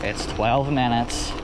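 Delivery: slow, gentle reassurance; soft calming voice. Retold or imitated. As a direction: soothe someone who is panicking. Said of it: "soft calming voice".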